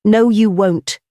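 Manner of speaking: high, ringing contradiction; iron gong voice. A narrator's reading. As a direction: ring it out like a gong. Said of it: "in a voice like an iron gong".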